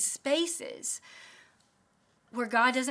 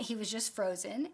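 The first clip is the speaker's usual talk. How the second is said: normal talking voice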